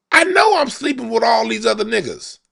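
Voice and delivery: very high, lilting confession of a seductress. Retold or imitated. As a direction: play the unfaithful Queen of Hearts. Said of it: "she like".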